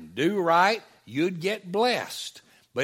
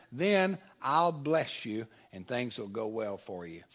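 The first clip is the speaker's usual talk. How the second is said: mock stern God; 3 dB louder than usual. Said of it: "he's saying".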